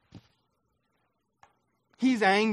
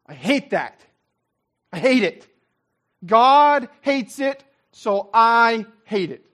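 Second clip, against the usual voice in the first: mock indignant; 3 semitones higher, 6 dB louder than usual.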